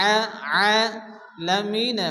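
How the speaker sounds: আলামিন with the first a stretched slowly; long a. Shown as a demonstration. Teacher showing the stretch in আলামিন. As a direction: draw out the আ of আলামিন. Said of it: "এক আলিফ পরিমাণ টান দিয়ে পড়তে হবে".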